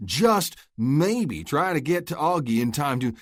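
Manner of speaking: loud, high mocking taunt. Luke goads Oscar into charging, taunting. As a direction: lay the taunt on thick. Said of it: "really laying on the taunting tone".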